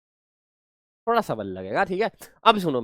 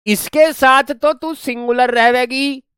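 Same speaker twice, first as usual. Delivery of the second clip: slow, louder and higher on सिंगुलर रहेगी; slow emphatic rule; 7 semitones higher, 5 dB louder than usual. Shown as a demonstration. Teacher repeating the key rule for students, slow and emphatic. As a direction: press each word of the rule home. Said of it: "ये वाली बात ध्यान से सुनना मेरी".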